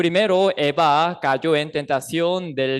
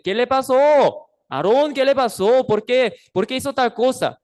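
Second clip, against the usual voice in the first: louder, higher angry rebuke; angry Moses; 5 semitones higher, 3 dB louder than usual. Acted. Moses coming down the mountain, rebuking Aaron angrily. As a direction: demand an answer like a furious prophet. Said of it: "se enojó demasiado que le dice".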